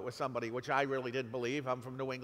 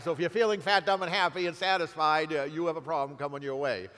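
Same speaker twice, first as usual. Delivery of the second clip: louder, punching "fat, dumb, and happy"; raised voice to wake the audience up; emphatic warning; 5 dB louder than usual. Shown as a demonstration. Repeats the phrase for emphasis.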